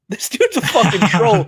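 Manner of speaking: amused, laugh-broken exclamation. Retold or imitated. Streamer recalling his reaction to the cop, laughing. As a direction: repeat it through a laugh, pitch lifted.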